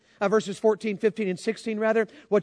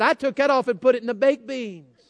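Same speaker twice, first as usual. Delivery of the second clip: laughing retelling; 3 semitones higher than usual. Retold or imitated.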